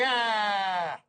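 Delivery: long, high-pitched groan of dismay. Retold or imitated. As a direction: draw out a pained, falling "aah". Dismayed reaction to crude remark.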